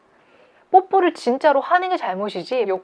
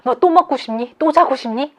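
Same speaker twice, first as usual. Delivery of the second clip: louder, higher mock scolding of oneself; acted self-reproach, pitched up in pointed questions; mengutuk diri sendiri; 4 semitones higher, 6 dB louder than usual. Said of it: "나의 욕구를 저주해서".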